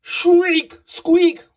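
high, loud storybook shriek and squeak; high-pitched, punchy bat cries. A narrator's reading. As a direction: call out the sound words like squeaking bats. Bat noises in a children's story.

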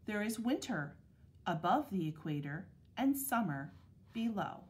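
measured picture-book reading with clear pauses; unhurried, carefully articulated storybook narration; read-aloud to children. Acted. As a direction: read it to second graders, phrase by phrase. Reads picture book to second graders.

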